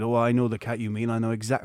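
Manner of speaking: lightly voiced farmer's accent; a hint of a country farmer's accent. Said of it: "doing a farmer's accent".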